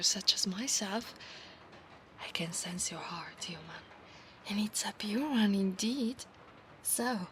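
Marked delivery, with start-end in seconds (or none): 2.2-6.2 hushed whisper. Acted. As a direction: whisper the promise close to his ear. Whispered roleplay.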